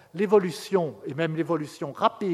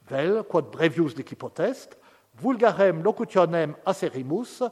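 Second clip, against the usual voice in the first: lecture latine. Acted. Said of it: "Donc, je traduis".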